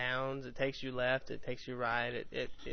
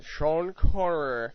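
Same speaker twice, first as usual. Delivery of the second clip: slow, louder Scottish spy voice; Sean Connery impression; 4 semitones higher, 12 dB louder, slower than usual. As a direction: say it like the old Bond actor. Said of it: "we read 'em in voices".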